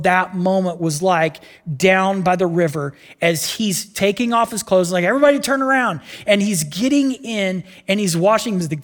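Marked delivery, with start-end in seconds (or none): 5.0-6.0 high, louder call; mock modest command. Naaman telling his servants to turn around, high and embarrassed. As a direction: shoo them away, embarrassed.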